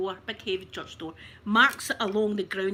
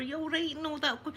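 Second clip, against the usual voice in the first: higher-pitched, fussing concern, re-enacted; consoling; 5 semitones higher than usual. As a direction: act out comforting a hurt old lady. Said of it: "we're trying to console her".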